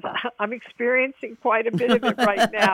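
laughing it off, a bit bitter; wry laugh over bad news; rueful laugh. Real, not acted. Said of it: "I have to laugh, but it's not funny".

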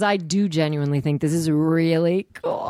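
earnest pleading with a stretched "really cool"; possibly sarcastic sincerity. Real, not acted. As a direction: oversold enthusiasm, hard to read. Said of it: "can't tell if you're being sarcastic".

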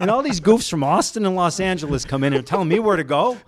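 half-joking hometown protest; indignant South Sider. Acted. Local complaining about goofs from Austin and Los Angeles, lightly indignant South Sider. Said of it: "this is where the South Sider in me comes out".

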